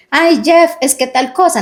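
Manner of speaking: high, pleading little whine; mock whiny complaint. Wife mock-complaining to her husband, high whiny tone. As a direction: play the wife nagging lightly.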